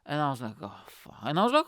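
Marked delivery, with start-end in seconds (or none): 0.6-1.2 breathy whispered oh fuck under his breath; whispered curse. Retold or imitated. Dismayed guy whispers to himself about the long walk. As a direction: swear under your breath, barely voiced. Muttered reaction on the date.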